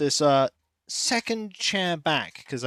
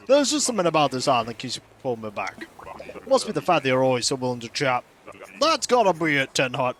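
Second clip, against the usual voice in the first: lightly voiced villager, quick and falling lower; chatty wanderer villager; 4 semitones lower, faster than usual. Villager telling a willing listener why he returns, lightly hearty. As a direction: read it as a talkative game character, lightly acted. Reads a game villager's dialogue aloud.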